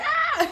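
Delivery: short high retold yelp; quick mock scream of fright; startled "ah". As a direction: yelp as if caught off guard. Mimics startled scream while clutching bag.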